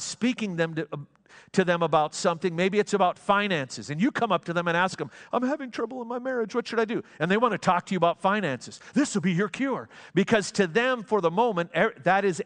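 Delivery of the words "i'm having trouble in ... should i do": pleading question. Pretend. Imagined person asking teacher.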